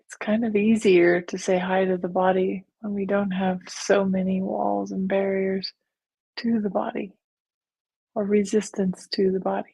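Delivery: calm, even meditation guide; guided meditation. Real, not acted. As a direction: lead them gently, with long pauses. Leads a guided visualization.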